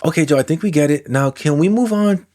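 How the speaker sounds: lightly voiced heckler from the audience; impatient viewer. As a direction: hurry the speaker along, a bit exasperated.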